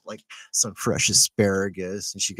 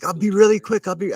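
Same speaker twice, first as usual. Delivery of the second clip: higher, louder mock voice of an old Russian lady; hurried little old lady, pitched up and louder; quoted old lady; 10 semitones higher, 5 dB louder than usual.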